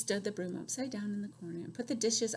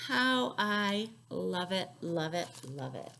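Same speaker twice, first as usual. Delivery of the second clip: contented whisper; 2 semitones lower, slower than usual. Acted. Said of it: "she said".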